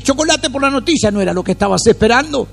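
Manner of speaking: high, playful sarcastic quip; teasing retort. Retold or imitated. Answering the amazed believer with a high, playful sarcastic quip. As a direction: tease them like it was obvious. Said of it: "uno tiene que decir".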